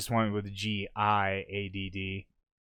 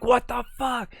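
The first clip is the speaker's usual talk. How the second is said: disbelief; 14 semitones higher, 5 dB louder than usual. Retold or imitated. Retold disbelief.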